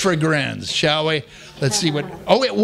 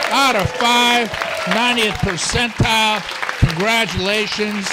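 game show host; 2 semitones higher than usual. Acted. Scoring the audience like a host.

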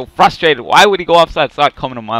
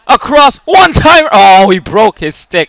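excited call; 6 semitones higher, 8 dB louder than usual. Real, not acted. One-timer chance in game.

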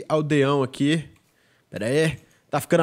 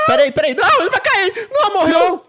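much higher and louder, laughing in alarm; panicked laugh; 6 dB louder than usual. Real, not acted. Gamer watching the villager slip, high panicked laugh. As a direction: yelp as it starts to fall.

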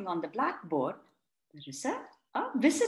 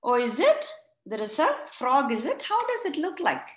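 casual; 3 semitones higher, 3 dB louder than usual. Retold or imitated. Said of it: "he says very casually".

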